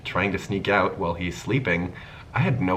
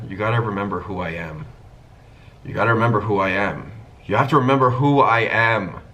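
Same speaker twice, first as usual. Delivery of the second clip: building from plain to a fast, much louder and higher outburst; getting angry; 4 semitones higher, 6 dB louder than usual. Retold or imitated. Straight friend growing angry at the pair, building to a shout. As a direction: repeat it hotter each time until it bursts. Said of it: "And he's getting really angry".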